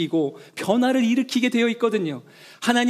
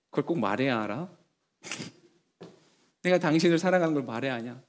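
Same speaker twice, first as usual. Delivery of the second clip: mumbled, lower, softer brush-off with a laugh; gruff brush-off; 6 semitones lower, 5 dB quieter than usual. Retold or imitated. Husband brushing off wife's request, low grumbling brush-off. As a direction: shrug it off like a tired husband. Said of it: "그럴 때 이렇게 말하죠".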